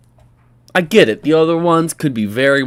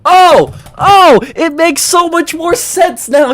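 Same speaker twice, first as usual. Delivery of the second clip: mock revelation; 14 semitones higher, 9 dB louder, slower than usual. Mock revelation after pregnancy news.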